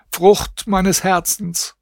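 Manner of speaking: hoch und sehr langsam jammern; langsame Klage. A narrator's reading. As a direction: jedes Wort schwer und klagend dehnen. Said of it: "schrie und jammerte". (hohe, langsame Klage)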